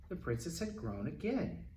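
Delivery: ordinary delivery, nothing marked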